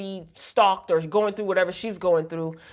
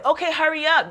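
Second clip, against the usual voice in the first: mock whiny nag; 7 semitones higher than usual. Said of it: "she's whining for them to hurry up".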